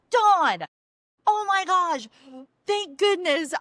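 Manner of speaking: high, loud joyful exclamation; acting out overjoyed recognition; excited relief. Woman finds the man she prayed for, thrilled relief.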